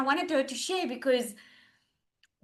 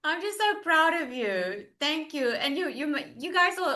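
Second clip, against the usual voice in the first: high, bright burst of pride; proud and moved; 5 semitones higher than usual. Real, not acted. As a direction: gush with pride at her. Host moved by the story.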